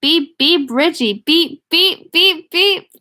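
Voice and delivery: high, loud beeps rising as they go; high quavering boy. A narrator's reading. Ben holds his nose to tease Richie, high boyish voice. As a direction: pipe up like a teasing boy. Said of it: "cried in a high, wavering, oh, quavering, boyish voice".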